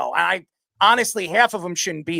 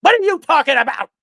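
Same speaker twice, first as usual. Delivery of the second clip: Stephen A. impression; 6 semitones higher, 6 dB louder than usual. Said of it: "personation of Stephen A. Smith".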